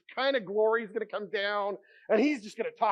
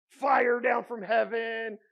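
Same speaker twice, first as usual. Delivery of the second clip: excited proclaim; 3 semitones higher, much slower than usual. Real, not acted. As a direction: hit it like the miracle itself. Describing God's fire from heaven.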